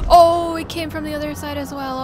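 sudden loud alarm; startled cry of alarm. Real, not acted. Chaser appears again.

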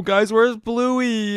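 slow, whimpering fake sob; mock crying. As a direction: pretend to be heartbroken over the lost friend. Bluey missing, fake panic.

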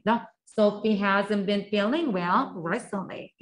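천천히 한 단어씩 따라 하게 읽기; 학생들이 따라 하도록 또렷하게; 또박또박 시범 낭독. Shown as a demonstration. Repetition drill. (따라 하기용 느린 시범 낭독)

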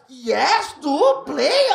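mock Indian accent in broken English; lightly voiced shopkeeper asking a question; imitating the shopkeeper with a rising question. Stand-up acting out Indian shopkeeper.

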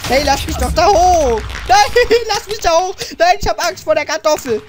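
high, laughing mock-scared protest; playful panic. Mock panic fleeing the potato.

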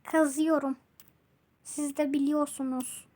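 flat, fast, even robot talk. Real, not acted. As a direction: sound like a monotone robot. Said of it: "Niye robot gibi konuşuyorum?". (robot gibi tekdüze ses)

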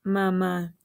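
slow, separated words, each given room; word-by-word reading. Shown as a demonstration. Teacher reading the finished sentence to children, slow and word by word. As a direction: read it out one word at a time. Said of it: "fíjense cómo voy siguiendo las palabras para leerlas".

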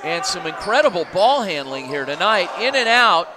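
energetic live basketball call; play-by-play. Acted. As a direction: call the action as it happens.

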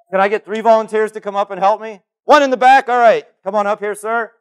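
loud call to the back of the room. Real, not acted. Speaker calls the audience for volunteers, loud call. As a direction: project it to the back row.

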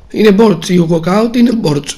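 exasperated cry at a bad pull; disappointed shout. Real, not acted. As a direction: shout it out in real frustration. Pack reveal, disappointed outburst.

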